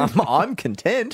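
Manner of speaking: I'm content, stressed on -TENT; slow, stress on the second syllable of "content"; content as feeling. Shown as a demonstration. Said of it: "Such a small difference in those words".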